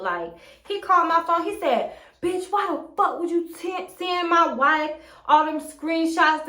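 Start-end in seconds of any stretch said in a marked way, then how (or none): 2.2-6.5 higher-pitched imitation of an angry man; retold confrontational demand; threatening. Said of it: "he threatened me".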